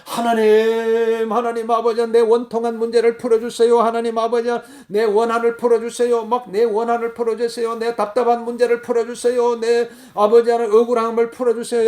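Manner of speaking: acted prayerful pleading on a held tone; imploring prayer. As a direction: beg God in a steady, urgent singsong. Demonstrates crying out in prayer.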